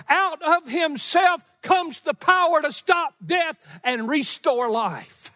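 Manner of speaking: forceful preaching. Real, not acted. Preacher telling congregation of Jesus' own power, emphatic. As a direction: proclaim it high, word by weighty word.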